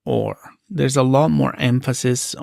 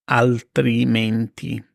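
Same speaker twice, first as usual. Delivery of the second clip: slow, syllable by syllable altrimenti; slow model of altrimenti; slow and clear; 2 semitones lower, slower than usual. Shown as a demonstration. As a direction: stretch out altrimenti. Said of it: "slow repeat".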